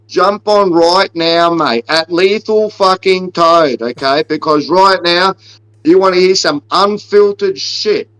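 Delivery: hyped-up fight callout, punching the taunts; mock fight promo aimed at Chael Sonnen; trash-talk promo. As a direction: play the cocky wrestling-style heel calling out his rival. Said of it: "fuck that promo".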